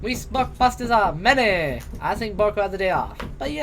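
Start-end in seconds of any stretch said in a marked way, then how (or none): 0.0-1.8 monster voice. Acted.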